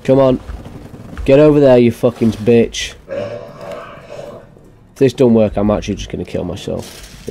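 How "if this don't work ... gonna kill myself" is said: grim mutter. Real, not acted. Frustrated gamer mutters threat.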